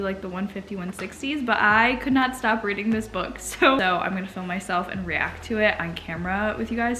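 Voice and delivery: soft, quiet early-morning talk, almost whispered in places; hushed morning voice. Real, not acted. Early morning hushed reading vlog.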